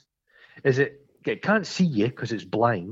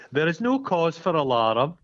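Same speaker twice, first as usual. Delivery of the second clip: higher-pitched public announcement; mock official announcement; 4 semitones higher than usual. Officials rounding up the townsfolk, mock reassuring announcement. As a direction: play the official addressing a crowd. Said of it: "they're rounding up the townsfolk".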